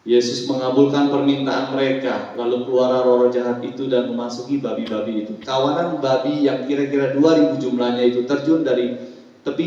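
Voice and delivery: projected Bible reading for a congregation; formal recitation, settling at the end; scripture reading. Acted. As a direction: read the verse out clearly. Pastor reads scripture aloud.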